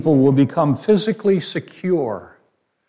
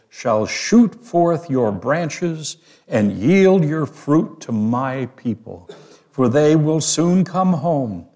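slow, lifted reading of the prophecy; slow ringing Bible reading; scripture reading. Acted. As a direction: read it like a solemn proclamation, slowly. Reads scripture aloud.

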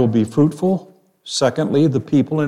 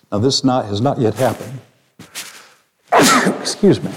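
usual speaking voice

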